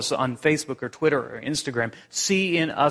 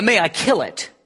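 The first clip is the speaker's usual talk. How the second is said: higher, firm angel question; unearthly voice; 7 semitones higher, 4 dB louder than usual. Acted. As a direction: ask it with solemn weight. Angel asks again.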